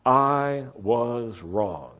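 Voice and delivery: each word drawn out slowly; measured, word-by-word delivery; slow model phrase. Shown as a demonstration. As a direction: say it slowly for others to repeat. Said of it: "these are the English words for the week".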